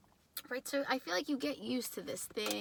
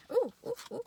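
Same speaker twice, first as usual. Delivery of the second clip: excited ooh; 11 semitones higher, much faster than usual. Real, not acted. Excited reaction to a tarot card.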